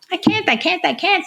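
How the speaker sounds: high whimpering I can't, mock panicked; imitating a panicked patient pitched high; hysterical patient. Hysterical hip patient refusing the therapist, high and panicky.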